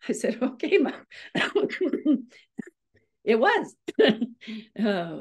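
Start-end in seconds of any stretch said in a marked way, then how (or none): 0.4-1.1 mock resigned reply. Answering mom in retold story.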